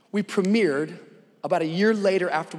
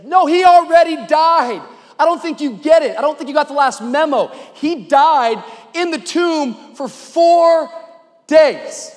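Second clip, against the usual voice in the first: high, loud, disbelieving objection; exasperated protest; 9 semitones higher, 10 dB louder than usual. Acted. Martha correcting Jesus about the death, exasperated. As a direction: drag out the last words for emphasis.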